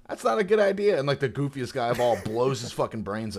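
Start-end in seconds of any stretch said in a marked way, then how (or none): 0.1-1.0 high, loud mock warning; pirate taunting a gunman with a loud high warning. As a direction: toss off a cocky warning up high. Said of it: "He's like".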